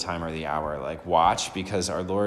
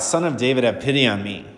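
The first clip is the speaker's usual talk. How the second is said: crying out; 3 semitones higher, 4 dB louder than usual. Acted. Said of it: "to just cry out".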